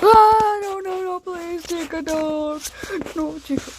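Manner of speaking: high squeaky panicked pleading; panicked squeak. Pretend. Figure begs in panic.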